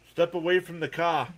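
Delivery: "car" as "cah", Boston style; Boston accent. Shown as a demonstration. Showing Miss Gina the accent, playful Boston accent. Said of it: "that was more Boston?".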